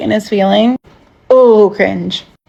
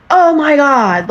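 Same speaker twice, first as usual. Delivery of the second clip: a higher, slow, mock-excited "Oh my God"; excited yell; 6 semitones higher, slower than usual. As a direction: imitate his over-eager greeting, stretched out.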